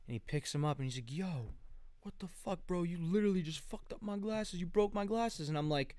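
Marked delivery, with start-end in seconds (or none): 1.1-5.5 high, softly voiced mock outrage; aggrieved accusation. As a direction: imitate an indignant accuser, pitched up but held back. Retelling scammer's glasses complaint.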